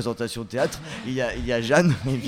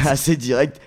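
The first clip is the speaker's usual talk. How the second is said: laughing; 3 semitones higher, 8 dB louder than usual. Real, not acted. Host laughs, echoing guest.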